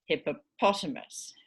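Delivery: "hippopotamus" with the main stress on POT; citation stress. Shown as a demonstration. Teacher showing citation stress, POT stressed in "hippopotamus". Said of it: "it's always in the same place".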